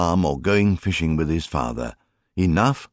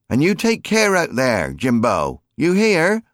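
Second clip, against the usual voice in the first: high, louder call; shouting after; 10 semitones higher, 4 dB louder than usual. A narrator's reading. Mary shouting a farewell to Jim, high loud call. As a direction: shout it after him down the field. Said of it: "she shouted after him".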